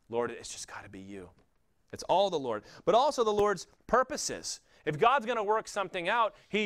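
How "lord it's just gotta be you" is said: low, softer yielding plea; surrendering prayer. Acted. Striver finally giving up to the Lord, quiet surrender. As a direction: give up and hand it over, low and quiet.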